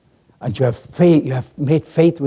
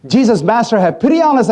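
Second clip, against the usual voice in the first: raised, higher cry for pity; shouted plea; 4 semitones higher, 4 dB louder, faster than usual. Acted. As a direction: call out to the Master for mercy. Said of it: "I shouted".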